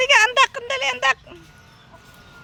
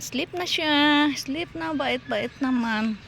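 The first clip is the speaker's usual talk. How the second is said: soothing coo; slower than usual. Real, not acted. Vlogger lulling Paulo to sleep, soothing coo. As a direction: draw it out tenderly, as if lulling.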